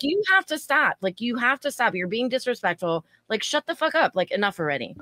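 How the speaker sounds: retold yelling at a rude drunk; mock yell. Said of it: "I'm, like, yelling".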